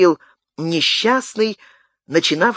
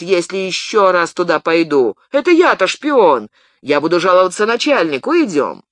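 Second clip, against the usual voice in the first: indignant protest; 4 semitones higher, 3 dB louder than usual. Acted. Indignant peasant protests arrest.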